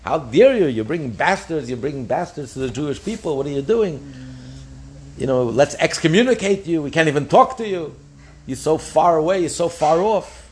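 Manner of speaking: a touch of mock outrage; mock anger. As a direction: scold them as an outraged rabbi might, half-acting. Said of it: "They should be so angry at Beis Shammai".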